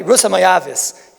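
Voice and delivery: slow, dismissive naming of Rus; disparaging. Shown as a demonstration. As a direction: say the name as if looking down on her. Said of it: "Why say it in such a mezulzaldik way".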